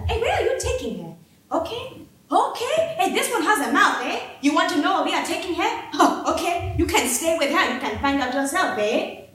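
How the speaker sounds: high, taunting sneer; mock her for speaking up; mocking officer. Officer taunting Farida for her questions, sneering.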